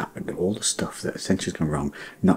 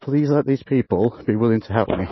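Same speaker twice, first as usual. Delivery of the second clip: shout; 11 dB louder than usual. Real, not acted. Shouting at a stalking dog.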